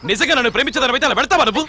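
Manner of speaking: half crying, half laughing; tearful reproach. Acted. Man reproaching his lover for leaving him, tearful. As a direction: choke up as you blame her. Hurt that she left him.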